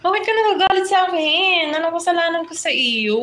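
a teasing, high mock plea asking what he did wrong; mock hurt plea. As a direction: play the falsely accused friend, half-joking. Teasing a commenter who seems angry.

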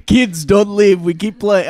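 put-on light Russian accent on an old hockey player; a loose Russian accent, half joking. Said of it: "why he's Russian now".

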